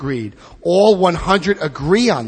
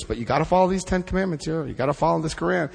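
quick, softer aside, rattled off; mock fine print; 5 dB quieter, faster than usual. Imitating religion adding rules to free choice, hurried mock fine print. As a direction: slip the conditions in hurriedly.

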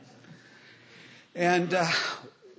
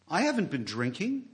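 mock sincere. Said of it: "with all the sincerity in my heart".

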